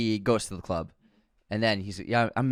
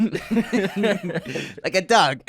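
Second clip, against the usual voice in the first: slow mob drawl; 7 semitones higher, 3 dB louder, much slower than usual. Retold or imitated. Savoring Falcone's line.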